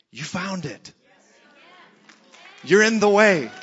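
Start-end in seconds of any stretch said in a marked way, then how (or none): 2.6-3.5 high, full-voiced preaching shout; triumphant shout. Real, not acted. Preacher assuring believers they found the way, triumphant shout. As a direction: proclaim it loudly as the payoff.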